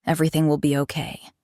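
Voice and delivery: steady, reassuring tone; calm, steady comfort; soothing reassurance. Acted. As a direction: reassure them gently and evenly. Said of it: "he reassured her, his voice steady and soothing".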